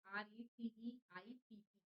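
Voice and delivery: slow spelling R E C E I P P, letter by letter. Shown as a demonstration. Teacher spelling receipt slowly for students. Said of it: "रिसिप्ट ही पढ़िएगा".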